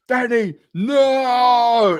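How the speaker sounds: drawn-out, high, loud wail; hammed-up cry of dismay; mock wailing outburst. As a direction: imitate a desperate, stretched-out howl. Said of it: "Becca shit her pants and went".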